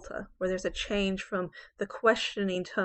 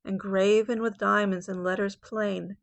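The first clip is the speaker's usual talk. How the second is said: poem reading. Acted. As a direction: read the octave like a sonnet performance. Teacher reads the sestet.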